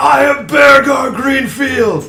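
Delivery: heroic, high, loud, slow proclaiming tone.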